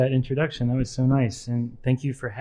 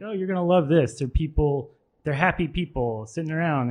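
lifted pitch, retold eager sales pitch; light, hopeful enthusiasm; upbeat persuading; 3 semitones higher than usual. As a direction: coax someone brightly, as if retelling it. Coaxing dad to like the park.

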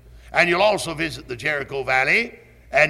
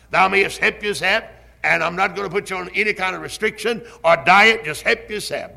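voicing God; 4 semitones higher than usual. Preacher voices God's command.

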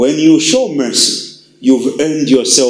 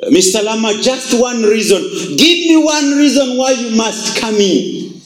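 insistent Jesus; 6 semitones higher than usual. Acted. Jesus presses the man at door.

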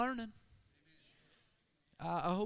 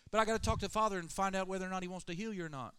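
higher, fast, syrupy mock brush-off; mock sweet brush-off; 5 semitones higher, 5 dB louder, much faster than usual. Jesus mock-stalling the woman, sugary and fast. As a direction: gush sweetly while putting her off. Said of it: "Jesus didn't say".

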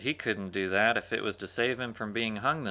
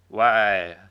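surprised; 12 dB louder than usual. Acted. Turtle's surprised reply.

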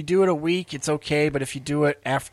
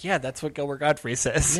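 matter-of-fact, unimpressed; unsurprised shrug. Acted. Imagining listeners used to the comedian, mildly dismissive. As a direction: shrug it off as expected. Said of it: "it was just like".

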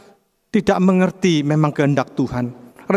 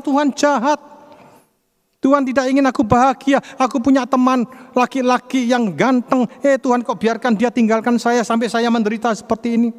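raised, higher-pitched mock complaint; acted anger at God; 6 semitones higher than usual. Jilted young woman blaming God, acted angry complaint. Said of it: "Dia marah kepada Tuhan".

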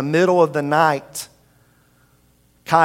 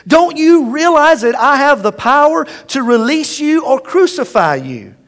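higher, louder threat; threatening; 8 semitones higher, 6 dB louder than usual. Acted. Pilate threatening Jesus, raised angry voice. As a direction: press him with your power.

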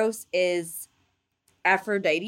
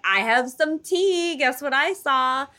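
gossipy voice; 7 semitones higher, 4 dB louder than usual. Retold or imitated. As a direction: spill the tea, eager and high. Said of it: "he's like".

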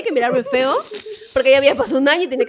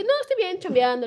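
softer, lightly acted friendly reply; casual friendliness; 3 semitones higher, 5 dB quieter than usual. Retelling her answer to her ex, casually friendly. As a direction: answer like catching up with an old friend. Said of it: "como si hubiera visto un amigo".

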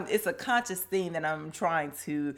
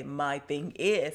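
slow catchphrase; 2 semitones lower, 3 dB quieter, much slower than usual. Shown as a demonstration. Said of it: "put more emphasis on that point".

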